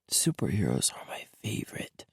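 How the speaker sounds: put-on little boy's hushed whisper; secret whisper. A narrator's reading. Little boy confiding to his dad, secret whisper. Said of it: "He whispered it like it was a secret".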